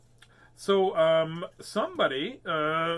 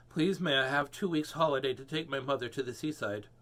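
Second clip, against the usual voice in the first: pleading. Acted. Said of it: "he begged his boss".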